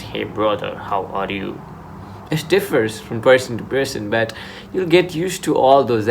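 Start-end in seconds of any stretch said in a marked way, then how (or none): 0.0-1.6 put-on African accent. Showing how English differs from person to person, African accent. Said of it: "African accent".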